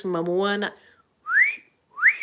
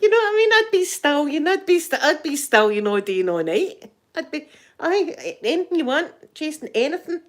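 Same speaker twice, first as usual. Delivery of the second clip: high, loud giddy swoon over Jason; breathless swooning delight; giddy fantasy; 8 semitones higher, 5 dB louder than usual. Pretend. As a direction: gush like a smitten fan. Fantasising about Jason Momoa.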